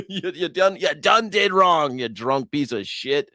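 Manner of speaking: jokey telling-off; mock scolding. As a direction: scold him like a kid. Scolding the candidate.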